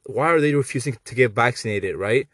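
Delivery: high, whiny mock voice of a vaccine believer; mocking vaccine fan. Imitating a vaccine supporter to mock them, high and whiny. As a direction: sneer it out in a squeaky sarcastic whine. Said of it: "And they're like".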